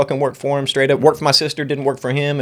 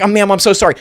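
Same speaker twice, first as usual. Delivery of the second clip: mock apology; 6 semitones higher, 4 dB louder than usual. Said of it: "I'm like".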